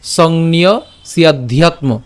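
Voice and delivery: "সংন্য সিয়াধ্যাত্ম" slowly, s linked onto ya; joined pronunciation. Shown as a demonstration. Teacher shows "সংন্য সিয়াধ্যাত্ম" said together, slow and linked. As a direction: join "সিয়াধ্যাত্ম" into one word. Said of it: "একসাথে যদি উচ্চারণ করি".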